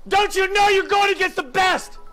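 slow indignant repeat. Real, not acted. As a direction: spell it out to him in disbelief. Same rant repeated slower.

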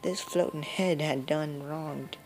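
lightly voiced granny, turning grim; a hint of a granny vowing revenge; old grandma voice. Granny warning the player, then grim.

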